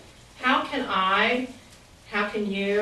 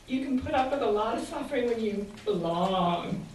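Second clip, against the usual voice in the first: put-on slow, enticing Southern accent; lightly imitated Southern drawl, slow and inviting; 2 semitones higher than usual. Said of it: "she adds in her slow, enticing way".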